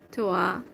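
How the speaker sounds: "toi" said as "twa", a learner sounding it out; French "toi". Shown as a demonstration. Explaining the French word to her chat partner, slow "twa". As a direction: spell it then say "toi" as "twa". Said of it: "the I is pronounced like a sound".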